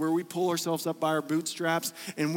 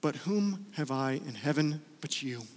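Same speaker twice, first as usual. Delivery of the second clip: 1 quiet trust; 4 semitones lower, 5 dB quieter than usual. Retold or imitated. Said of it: "But then he says".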